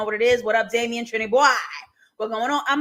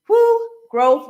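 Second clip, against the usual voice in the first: higher and louder, a joyful woo; excited cheer; 8 semitones higher, 8 dB louder than usual. Real, not acted. Host hyping the characters' growth to chat, cheering.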